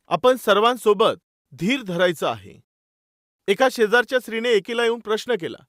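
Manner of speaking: normal talking voice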